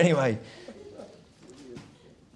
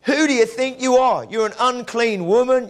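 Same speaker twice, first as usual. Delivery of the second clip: scornful rebuke; 7 semitones higher, 4 dB louder than usual. Retold or imitated. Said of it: "he could have said to her".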